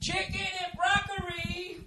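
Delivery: very high, soft, stretched mock Asian accent on "Chicken and broccoli". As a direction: say "broccoli" the way the takeout guy did, high and sing-song. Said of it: "I can't say broccoli without an Asian accent".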